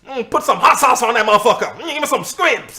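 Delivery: put-on a touch of caricatured Black American accent. Comic showing friends a funny accent, hammed-up Black American accent. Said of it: "You get that typical American".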